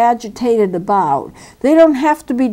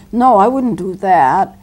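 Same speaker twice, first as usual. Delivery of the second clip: matter of fact. Shown as a demonstration. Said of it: "just as a matter of fact".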